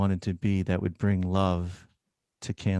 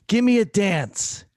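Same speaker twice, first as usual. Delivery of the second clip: put-on much higher old woman voice; imitating a blunt old patient; old lady scolding; 11 semitones higher, 6 dB louder than usual. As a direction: call out the doctor. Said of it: "patient asks to dance".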